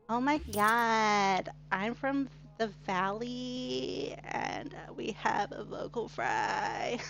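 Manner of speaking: put-on very slow Valley Girl with creaky vocal fry; Valley Girl accent. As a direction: drag out each word in a Valley Girl fry. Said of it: "Southern accents of Valley Girl".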